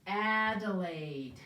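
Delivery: drawn-out, syllable by syllable; slow sounding out. Shown as a demonstration. Teacher sounds out the name for the class. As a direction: stretch the name slowly, Adelaide. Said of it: "there are two letter A's".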